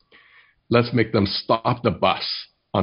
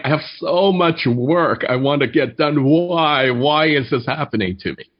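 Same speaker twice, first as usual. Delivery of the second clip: higher-pitched, retold yell without much volume; mock exasperated yell; 5 semitones higher than usual. Wife yelling back at her husband about her workload, mildly exasperated mock yell. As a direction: imitate a wife's frustrated outburst, pitched up. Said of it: "she yells back".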